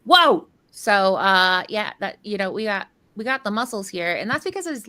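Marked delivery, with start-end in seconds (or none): 0.0-0.5 loud, high exclamation; imitated amazement. Caster imitating colleague seeing a player's picture, loud amazement. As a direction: mimic someone wowed, bursting out higher and louder. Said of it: "made J D Z go".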